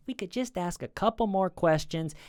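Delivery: mild imitation of a friendly detective. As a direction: coax gently, mock polite. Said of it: "So they keep the friendly tone".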